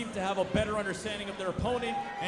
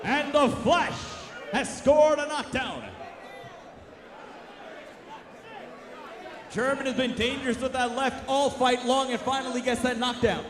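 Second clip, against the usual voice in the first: rising ringside call toward the knockdown; play-by-play. Real, not acted. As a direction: call every punch, building excitement. Live play-by-play boxing commentary.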